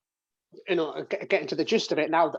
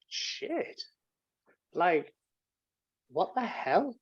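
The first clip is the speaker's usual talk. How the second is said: shocked whisper; 3 semitones higher, 6 dB quieter, much slower than usual. Retold or imitated. Retold shock in the car.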